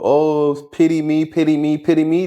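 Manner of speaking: lightly mimicking someone begging for pity; imitating a pity-seeker, understated; mock self-pity. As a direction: repeat it as a singsong mock plea. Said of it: "start to act like as if".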